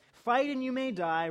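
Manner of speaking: rally the troops on FIGHT; rousing battle cry. Retold or imitated. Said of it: "I can't do it in the Scottish accent or as crazy as him".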